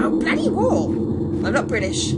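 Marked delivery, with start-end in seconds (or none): 0.0-0.9 sudden high, loud curse; exasperated outburst. Real, not acted. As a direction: burst out at the obstacle. Runs into wall mid-sentence.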